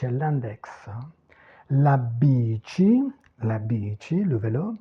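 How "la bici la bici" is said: "la bici" with a long ee in bi; teacher's model, "la bici" as BEE-chee; lengthened stressed vowel. Shown as a demonstration. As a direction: draw out the first I of "bici". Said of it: "toujours l'allongement vocalique".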